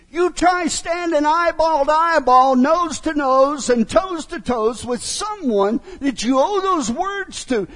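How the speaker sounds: loud, high and pressing, slowing on nose to nose; emphatic pulpit challenge; forceful preaching. Acted. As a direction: drive it home to the congregation. Preacher presses the point hard.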